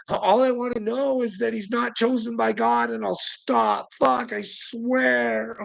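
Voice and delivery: high, strained mock plea; high-pitched protest; acted pleading. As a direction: plead in exasperation, playing it up. Acts out demand to crew.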